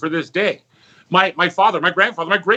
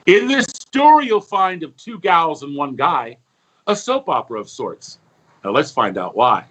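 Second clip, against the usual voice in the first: storybook rhyme reading; 2 semitones higher than usual. Acted. Uncle R J reading his rhyming story to the audience, lilting narration. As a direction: read it like a bedtime verse.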